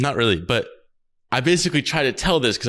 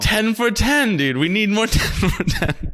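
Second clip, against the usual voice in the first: hyped up; 7 semitones higher, slower than usual. Real, not acted. Excited rallying cry.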